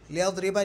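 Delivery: लियदरिबा with a final short "a"; wrong -a ending. Shown as a demonstration. Teacher showing a wrong ending, लियदरिबा voiced with final "a". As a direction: end लियदरिबा on an open "a" vowel. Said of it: "नहीं आएगा".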